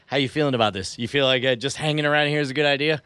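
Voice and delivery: mildly snide aside. Acted. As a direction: needle him with a casual question. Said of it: "I turn to Justin snidely and say".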